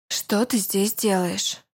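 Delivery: a touch slow, each word measured and cold; clipped frown. Acted. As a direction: rap it out, frowning. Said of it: "отчеканила дева, хмурясь". (отчеканила, хмурясь)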